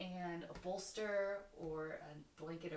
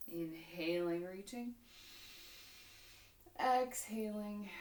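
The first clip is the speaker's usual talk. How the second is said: yoga instruction; 4 dB louder than usual. Real, not acted. Leads yoga practice with breathing cues.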